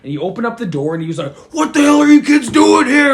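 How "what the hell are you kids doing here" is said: put-on higher and louder angry yell at kids; mock angry shout; imitated yelling. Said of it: "He's, like, yelling at us".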